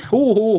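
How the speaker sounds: high, put-on "ho ho"; mock jolly laugh. Barman jokes as he hands over the pint, mock jolly.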